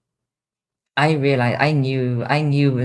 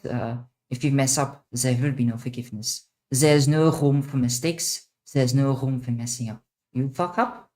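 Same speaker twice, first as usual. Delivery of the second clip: villain voice. Shown as a demonstration. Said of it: "the real villain voice sounds like".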